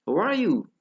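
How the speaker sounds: "How are you" loud, peaking high on are and falling; drilled "How are you", exaggerated high arch; high intonation. Shown as a demonstration. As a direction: push "are" right up, then drop on "you". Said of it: "tingginya intonasi itu seperti itu".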